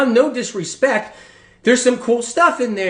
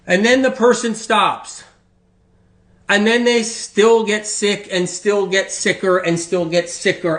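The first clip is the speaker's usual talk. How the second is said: ordinary delivery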